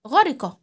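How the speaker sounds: snatch the i of غرقة quickly; غرقة with a brief kasra; short i in غرقة. Shown as a demonstration. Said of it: "بنخطفها كده".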